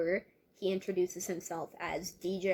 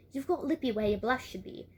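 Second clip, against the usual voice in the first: attempted Australian girl's accent; amateur Australian voice. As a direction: keep up a wobbly Australian accent. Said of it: "keep up an Australian accent".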